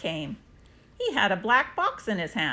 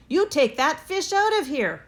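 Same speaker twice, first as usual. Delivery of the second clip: mild yell; 6 semitones higher, 4 dB louder than usual. A narrator's reading. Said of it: "they yelled".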